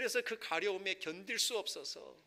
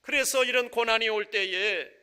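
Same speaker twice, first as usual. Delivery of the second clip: loud, raised-pitch pulpit proclamation; ringing sermon delivery, hammering each phrase; impassioned preaching; 8 semitones higher, 17 dB louder than usual. Real, not acted. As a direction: preach it at full force, voice lifted high. Preaches at full force.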